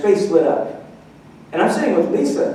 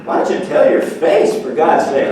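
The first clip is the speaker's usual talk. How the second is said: exasperated mock retort; 2 semitones lower, 4 dB louder than usual.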